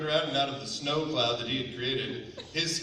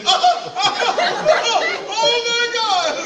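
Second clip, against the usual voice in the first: retold cries of shock and pain; agonized screaming; 10 dB louder than usual. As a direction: scream in mock agony. Retells agony of broken collarbone.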